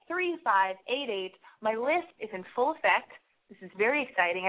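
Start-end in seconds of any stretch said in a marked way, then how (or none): 1.6-4.5 speaking with a heavy lisp; lisping on every s. Real, not acted. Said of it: "I don't know why I'm lisping so intensely".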